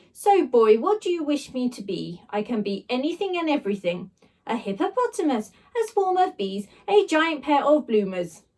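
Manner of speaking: lightly voiced regal blob; posh slime voice. Slime blob offering shapes, lightly posh. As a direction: grandly list the options.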